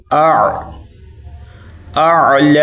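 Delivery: اع with squeezed throat, then held اعلی; correct reading. Shown as a demonstration. Teacher spelling it out, اعلی with clear ayn. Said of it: "ایسے پڑھنا ہے".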